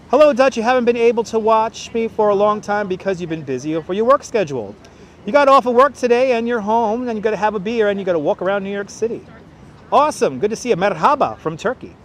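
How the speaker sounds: loud, high announcer read-out; tour guide voice. Acted. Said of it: "My tour guide voice is impressive".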